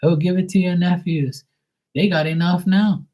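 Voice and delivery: high, loud, comic protest; mock refusal. Turning down friends' cookies in a high, loud mock protest. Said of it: "I'm like".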